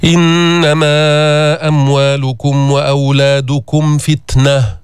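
chanted recitation with a breathy final ت in فتنة; slow Quran recitation. Shown as a demonstration. Teacher demonstrates the whispered ت for students. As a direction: draw out the verse slowly. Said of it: "هيك الهمس".

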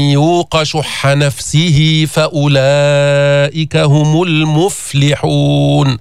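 very slow chanted tajweed recitation. Shown as a demonstration. Teacher recites the verse ending for students. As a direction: stretch every word out. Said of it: "سكن الفاء".

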